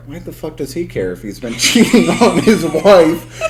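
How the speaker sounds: baffled outburst through laughter; retelling past confusion with a laugh; laughing quote. Retold or imitated. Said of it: "I was like".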